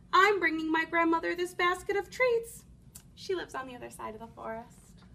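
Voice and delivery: put-on little girl voice. Red explains.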